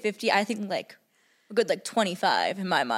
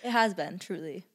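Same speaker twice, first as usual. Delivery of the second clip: sarcastic. Real, not acted. Daughter agreeing with mom it's been amazing, sarcastic. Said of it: "Okay, sarcastic".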